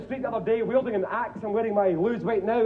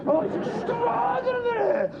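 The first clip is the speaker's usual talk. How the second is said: much higher, slow exclamation; shrill exclamation; 11 semitones higher, slower than usual. Acted. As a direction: squeal it way up high. Sudden high squeal after transformation.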